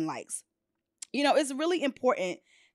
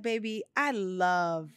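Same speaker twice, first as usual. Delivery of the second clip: tender quote; 4 semitones lower, 4 dB quieter than usual. Retold or imitated. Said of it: "he was like".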